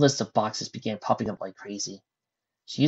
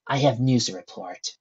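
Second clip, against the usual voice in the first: grim. Acted. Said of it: "she said grimly".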